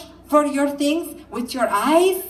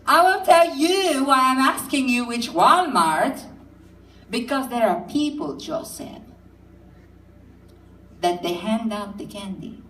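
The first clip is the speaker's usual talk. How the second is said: sing-song mother. Retold or imitated. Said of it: "a kind of a singing thing going on".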